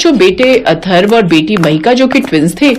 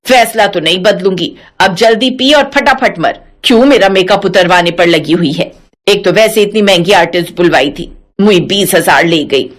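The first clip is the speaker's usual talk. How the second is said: put-on lower, scolding old mother-in-law; 5 semitones lower than usual. Mother-in-law scolding her daughter-in-law, lower feisty voice. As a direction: play the feisty old saas brushing her off.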